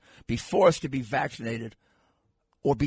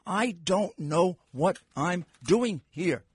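slow mock quote; much slower than usual. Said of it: "based on".

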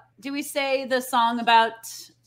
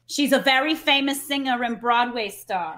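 ordinary delivery

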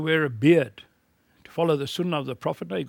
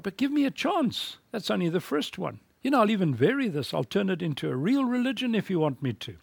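higher, lightly voiced Cain bargaining with God; a hint of a wheedling Cain, pitched up; Cain pleading; 5 semitones higher than usual. Preacher imagining Cain bargaining with God, higher and lightly pleading. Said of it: "Cain might have said to God".

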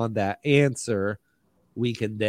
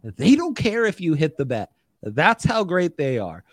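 ad read; 3 semitones higher than usual. Acted.

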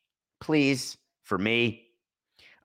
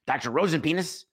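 Fletch quote; 5 semitones higher than usual. Retold or imitated. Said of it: "You hear me say".

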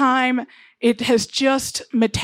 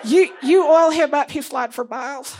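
Bitsy voice; 4 semitones higher than usual. Acted. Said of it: "And she's like".

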